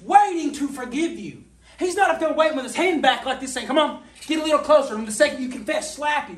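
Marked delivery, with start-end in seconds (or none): 1.8-6.4 mock threat. Mocking a God ready to slap.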